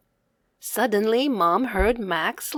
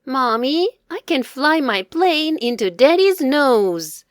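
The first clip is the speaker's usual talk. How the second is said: put-on cheeky child; 5 semitones higher, 4 dB louder than usual. Child boasts to Mom.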